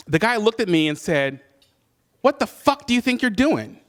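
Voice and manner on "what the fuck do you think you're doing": retold mugger's challenge, pitched up; higher, incredulous confrontation in a retelling; indignant challenge. Mugger confronting the man with the gun, retold indignant challenge.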